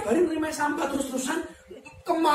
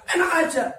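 mock indignant wife; 6 semitones higher, 5 dB louder than usual. Wife refusing advice.

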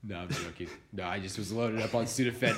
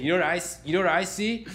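put-on higher, louder, excited kid who can't get it out; stammering kid; 7 semitones higher, 4 dB louder than usual. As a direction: keep circling the question like an eager little kid. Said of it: "he just keeps saying".

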